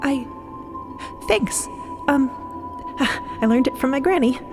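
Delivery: halting, with long gaps and a sigh; flustered, tongue-tied. Acted. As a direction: stumble over a shy thanks. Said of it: "Cleo forgets how to talk for a second".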